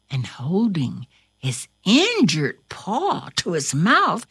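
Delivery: lively read-aloud storytelling voice; story narration. A narrator's reading. Reading a story to Corona, lively storytelling.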